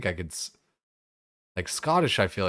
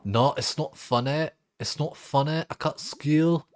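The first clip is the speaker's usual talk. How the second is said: high put-on kid voice, faster; quoting viral video; 8 semitones higher than usual. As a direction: repeat the video line quickly. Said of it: "I love that fucking video".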